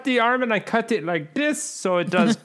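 high, animated TV chef; Gordon Ramsay impression. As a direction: play a cocky celebrity chef. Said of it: "Gordon Ramsay".

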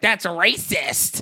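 mock-outraged woman, words drawn out; hammed-up shrill accusation; shrill objecting lady. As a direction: imitate a scandalized bus passenger, slowly stretched. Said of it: "a shrill bitch that can't handle jokes".

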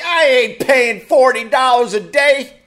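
high, loud indignant refusal; mock indignant. Comic refusing the resort clerk, indignant. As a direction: push back hard on the price.

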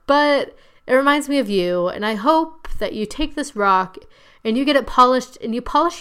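put-on weepy earnestness; mock tearful speech. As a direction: imitate a girl crying for show as she makes a speech. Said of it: "crying because she's a good performer".

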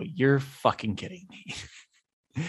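retold rage. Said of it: "in a fit of rage".

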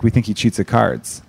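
put-on strong Chicago accent. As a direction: lean into the Chicago vowels. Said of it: "Your accent really came out there".

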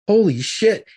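high, loud stunned exclamation; retold shock. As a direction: burst out stunned, retelling the moment. Retold shock at drugged girl.

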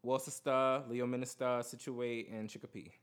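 New York accent, sounding out every syllable; New York take on Massachusetts town names. Real, not acted. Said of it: "It's a New York accent".

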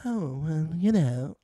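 mildly posh imitation; posh accent. Host trying a castmate's accent, posh. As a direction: put on a posh English accent, loosely. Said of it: "I love how posh her accent is".

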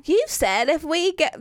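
slow attempt at an Australian accent. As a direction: imitate an Australian husband, slowly. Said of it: "this is my Austri".

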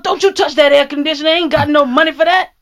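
put-on cranky old man. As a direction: gripe like a stingy old-timer. Same cranky old man rants.

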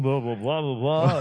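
mock radio-ish actor voice; affected actor voice. Former drama student mocking own old voice, affected delivery. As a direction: put on an affected, self-important actor's sound. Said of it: "so affected in my voice".

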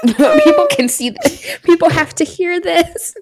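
high, loud, drawn-out urging through laughter; real giddy outburst; hysterically excited. Real, not acted. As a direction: cry it out slowly, overcome with hilarity. Hysterical banter, urging people to watch.

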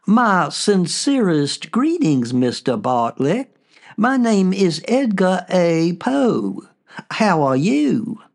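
soft, slow Southern gentleman's drawl; lightly voiced Southern ghost, gentle and unhurried. Ghost of Edgar Allan Poe greets the narrator in a soft Southern drawl. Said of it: "He spoke in a soft voice with a southern accent. Some might say drawl".

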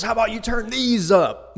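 a feisty grandma voice, high and loud; sassy grandma. Retold or imitated. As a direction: imitate the grandma flipping him off with a cheeky dare. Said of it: "my friend's grandma goes".

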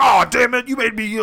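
high, loud cartoon outburst; hammed-up screaming fit; mock screaming. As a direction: yell it shrieking, breaking into a wordless cry. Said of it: "they just start screaming at each other".

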